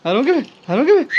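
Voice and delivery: a hint of the baby pleading to join in; mild mock baby voice wanting to come too; voicing the baby boy. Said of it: "वो बेचारा बोले".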